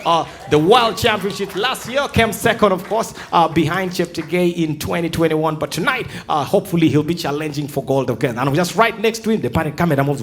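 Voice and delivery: smooth broadcast announcer voice; mock Olympics commentator presenting the runners; TV sports commentator. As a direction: introduce the athletes like a live Olympic broadcast.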